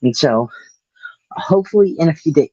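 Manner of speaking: winded after running; speaking between breaths. Real, not acted. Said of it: "sorry, I'm out of breath".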